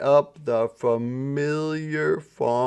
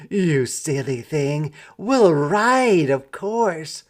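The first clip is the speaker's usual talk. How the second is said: city mouse voice; 3 semitones higher, 4 dB louder than usual. Acted. City Mouse laughs at cousin.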